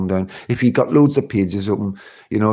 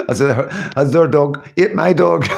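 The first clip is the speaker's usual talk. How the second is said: laughing while talking; 3 semitones higher than usual. Real, not acted. Laughing at own dog boast.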